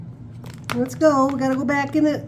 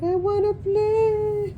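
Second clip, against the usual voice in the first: voicing the bird; 7 semitones higher, much slower than usual. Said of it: "And she's like".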